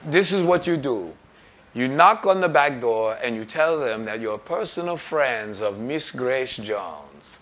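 put-on affected diva accent, grandly drawn out at the end; imitated star's affected accent, slowing grandly; a singer. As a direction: give instructions in an odd theatrical accent. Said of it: "So she says".

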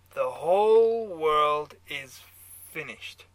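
put-on slow, booming German-accented verdict, dropping off at the end. A narrator's reading. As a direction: pronounce doom in a German accent. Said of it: "your German accent".

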